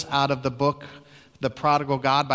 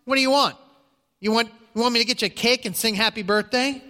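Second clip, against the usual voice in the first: higher, mocking retort, a touch of nasty; 6 semitones higher, faster than usual. Friend snapping at Agnes about her birthday, mildly nasty. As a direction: sneer it back like an annoyed friend. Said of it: "responded in a nasty tone".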